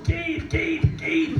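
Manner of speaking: high, loud calls of Keith; urgent high shout of a name; screaming his name. Retold or imitated. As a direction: yell for the guide ahead. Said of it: "And I start screaming".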